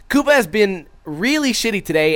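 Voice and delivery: ordinary talk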